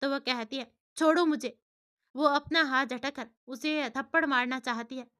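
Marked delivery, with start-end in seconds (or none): 1.0-1.6 louder, raised protest; a girl yanking free, crying out to be let go; sharp cry to let go. Acted. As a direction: snap at him to let go of her hand. Girl grabbed, pulls free.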